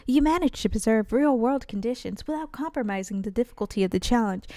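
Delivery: a hint of a formal character praising an instructor; lightly voiced game character. Reads unvoiced game dialogue aloud.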